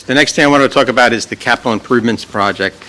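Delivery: hoarse, fast, losing voice. Real, not acted. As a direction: push through a hoarse throat. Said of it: "still losing my voice".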